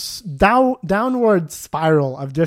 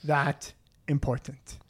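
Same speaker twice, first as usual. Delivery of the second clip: very slow, spaced-out words; deliberate put-down; 6 dB quieter, slower than usual. Retold or imitated. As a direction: drag out the put-down word by word. Repeats his comeback for effect.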